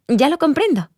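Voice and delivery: high, excited exclamation; excited realization. Acted. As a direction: let the realization lift the voice high. Moved listener has sudden realization.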